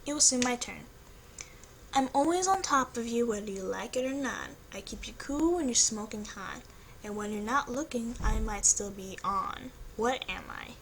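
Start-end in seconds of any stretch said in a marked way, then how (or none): 1.9-10.7 sultry voice. Acted. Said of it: "I asked using a lot of sexuality".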